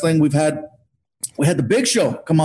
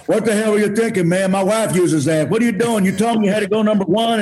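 mock-angry rant, a touch higher; imitating an upset host chewing him out; half-hearted angry rant at a guest who abused his bathroom; retold angry rant; 4 semitones higher than usual. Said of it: "he's mad".

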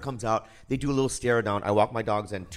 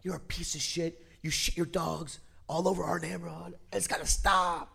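mock screaming woman; 4 semitones higher, 5 dB quieter than usual. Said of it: "she starts screaming at me".

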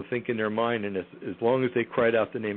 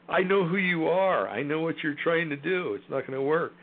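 retold defiance; 6 semitones higher than usual. Guest retells facing down the entities, taunting defiance. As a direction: call their bluff, mock-confident.

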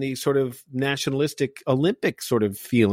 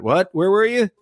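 high, louder imitation of a puzzled ex-wife; mock puzzled surprise; 8 semitones higher, 5 dB louder than usual. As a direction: toss out a startled question, pitched up. Retold surprise of ex-wife at home.

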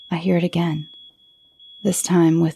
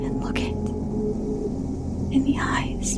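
whispering; 7 dB quieter than usual. A narrator's reading. Daring to look at the creature.

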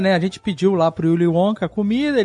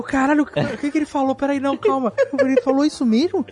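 stunned and disbelieving, raised pitch; higher-pitched shocked inner voice; 5 semitones higher than usual. Retold or imitated. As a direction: caught off guard, can't believe it. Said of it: "fiquei em choque".

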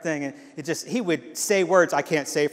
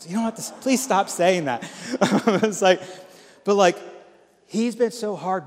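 laughing through embarrassed protest; 5 semitones higher, 5 dB louder than usual. Real, not acted. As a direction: chuckle it off bashfully. Laughing while retelling praise.

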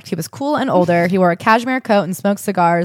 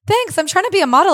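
eager hopeful; 11 semitones higher, 3 dB louder than usual. Retold or imitated. Eager young model to CEO.

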